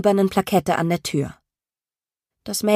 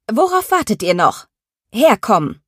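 barked order, louder at the end; harsh command; 2 semitones higher, 3 dB louder than usual. Acted. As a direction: order the kids over sharply.

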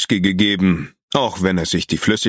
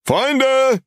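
sehr hoch und laut herausgebrüllt; gebrüllt. A narrator's reading. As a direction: ruf es den Freunden laut zu. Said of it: "brüllte Marcus". (gebrüllter Zuruf)

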